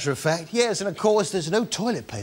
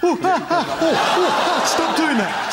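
high, loud, laughing squeals of pretend pain; mock pain squeals; 11 semitones higher, 3 dB louder than usual. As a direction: squeal as the turkey pecks you.

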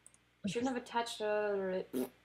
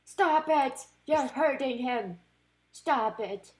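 higher, louder plea to the opponent; mock pleading shout; 4 semitones higher, 5 dB louder, slower than usual. Real, not acted. Begging the opponent to stop hurting her Pokemon, mock plea. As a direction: cry out to stop the attack.

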